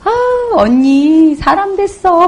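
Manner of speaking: loud, drawn-out mock amazement, near laughter; teasing customer. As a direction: marvel at an old friend's transformation. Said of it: "그 소비자가 저를 지금 보잖아요". (놀리듯 감탄하는 흉내)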